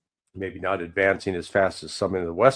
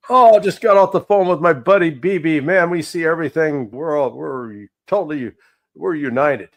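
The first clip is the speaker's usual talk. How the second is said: louder, higher mock bragging president; mock Trump; 6 semitones higher, 7 dB louder than usual. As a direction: ham up a boastful leader gushing about his buddy. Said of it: "where he said".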